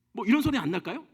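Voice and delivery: a pointed, irritated throat clear; exasperated throat-clearing. Shown as a demonstration. God fed up with Moses's excuses, a pointed irritated throat clear. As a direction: clear the throat at someone's nerve. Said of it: "우리 입에서 나오는 소리가 있어요".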